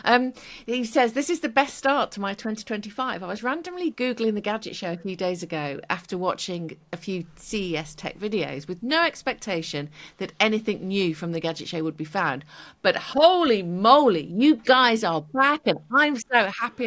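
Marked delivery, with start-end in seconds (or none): 1.1-12.4 put-on reading a comment in a light American accent; light American accent on a fan's comment; slight American accent. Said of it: "I'm doing it in a bit of American accent". 12.8-16.8 mock excited. Reading an excited fan comment.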